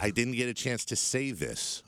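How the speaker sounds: slow robotic monotone. Pretend. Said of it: "Say it really robotically".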